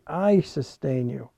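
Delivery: slow, with a firm emphatic I; stress on I. Shown as a demonstration. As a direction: hit the word I. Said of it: "the emphatic first person pronoun".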